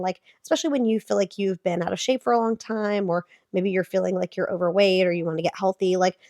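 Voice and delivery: hoarse sick voice; talking through a cold. Real, not acted. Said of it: "sorry for my sick voice".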